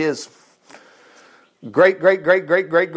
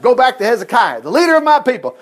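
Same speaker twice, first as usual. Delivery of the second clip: louder and higher, ringing out; proclaiming the Lord's words; 5 semitones higher, 4 dB louder than usual. Retold or imitated. Pastor voices the Lord to the class, proclaiming loud. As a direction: announce it like a divine decree.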